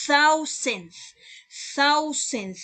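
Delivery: thousand repeated, falling, th against the teeth; thousand, clearly modelled twice; English thousand. Shown as a demonstration. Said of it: "esa es la pronunciación".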